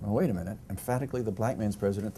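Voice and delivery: mild, puzzled double take on emphatically; retold disbelief. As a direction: replay your own surprise, a touch incredulous. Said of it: "I thought".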